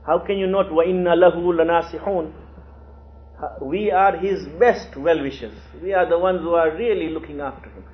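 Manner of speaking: insistent, imitated indignation; reproachful. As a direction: protest like sons wronged by their father. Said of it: "coming in a very reproachful way".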